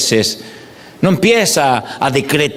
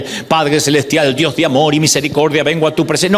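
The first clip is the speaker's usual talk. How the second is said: formal prayer opening. Pretend. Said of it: "No, pragmáticos".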